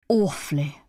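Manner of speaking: understated fervour; mean it deeply in one word; fervent. A narrator's reading. Reggie tells Anne he likes doves, fervently. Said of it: "so fervently".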